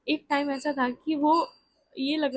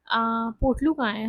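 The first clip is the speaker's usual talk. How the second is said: tender question; 5 dB louder, slower than usual. Retold or imitated. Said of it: "मैंने उनसे बोला".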